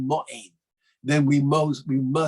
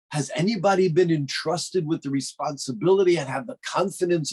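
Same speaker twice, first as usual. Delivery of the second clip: a touch of proud swagger, pitched up; arrogant boast; 3 semitones higher than usual. Acted. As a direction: boast lightly as if above everyone. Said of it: "Listen to the arrogance".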